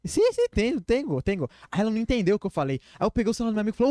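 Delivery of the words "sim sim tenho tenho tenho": put-on high, quick eager yes from the girl; eager girl's reply. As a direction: jump in brightly as her. Voicing the Argentine girl. (resposta animada e aguda da menina)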